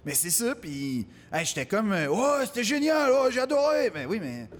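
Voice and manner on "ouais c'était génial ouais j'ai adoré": high, sustained mock enthusiasm; gushing spectator. Spectator tells comic they loved it, high mock gushing. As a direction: parody an over-delighted fan. Imitates gushing audience again.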